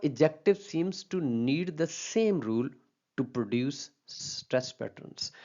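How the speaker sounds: slow, careful textbook reading; reading a rule aloud. Acted. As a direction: read the rule out slowly, word by word. Reads rule from slide slowly. (धीमी आवाज़ में नियम पढ़ना)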